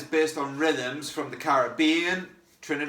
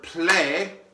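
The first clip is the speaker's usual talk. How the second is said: "play" given extra energy; "play" punched with a rise; accented play; 4 semitones higher than usual. Shown as a demonstration. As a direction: hit "play" a bit stronger. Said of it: "When we say the word".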